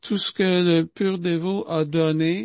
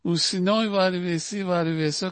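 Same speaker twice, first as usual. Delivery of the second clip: mock threatening demand; 3 semitones higher than usual. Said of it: "comme ben du monde peut dire".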